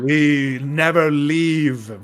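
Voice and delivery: a hint of a magical machine voice; bass mechanical golem voice. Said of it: "very bass, mechanical, like, magical, like, essence to the voice".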